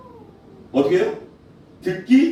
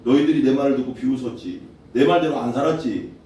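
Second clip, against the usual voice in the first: low, measured scolding; stern reproach; 4 semitones lower than usual. Acted. God rebuking those who ignored him, stern low reproach. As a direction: list their faults coldly. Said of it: "하나님 웃어버린다는 거예요".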